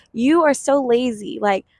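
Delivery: mild stern-parent rebuke; mock angry parent. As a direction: lecture the lazy child, half-acted. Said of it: "a parent's angry at the child because the child is lazy".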